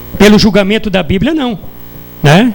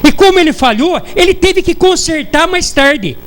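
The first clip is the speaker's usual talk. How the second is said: mocking a smug know-it-all, pitched higher, slowing on ele falhou; arrogant mockery; 5 semitones higher than usual. Preacher mocking an arrogant person who claims God failed, high scornful voice. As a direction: sneer it out like someone sure God got it wrong. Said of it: "a prepotência de falar".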